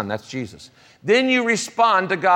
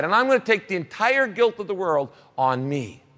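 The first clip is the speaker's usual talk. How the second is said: Jesus taking on guilt. Acted. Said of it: "And Jesus said".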